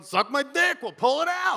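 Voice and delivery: high-pitched back-and-forth hollering; acted-out shouted exchange; mock yelling match. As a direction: play two brawlers yelling at each other. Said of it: "They're just going".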